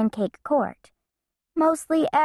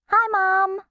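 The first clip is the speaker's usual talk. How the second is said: put-on bright child voice; 11 semitones higher than usual. Bean calls under the desk.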